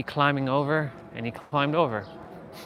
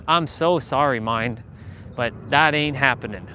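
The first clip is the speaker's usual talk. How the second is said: mock sorry; 3 dB louder than usual. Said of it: "And I'm like".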